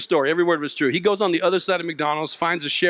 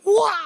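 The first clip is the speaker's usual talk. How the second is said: mock battle "wah!"; sudden hammed-up action yelp; karate cry; 5 dB louder than usual. Man leaping out of his car to the rescue, mock battle cry.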